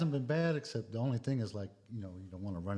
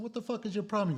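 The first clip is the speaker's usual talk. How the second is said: retold confrontation; 10 semitones higher than usual. Retold confrontation with staring strangers.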